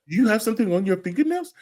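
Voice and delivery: imitating a Nigerian uncle, high and quick; Nigerian accent. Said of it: "in his Nigerian accent".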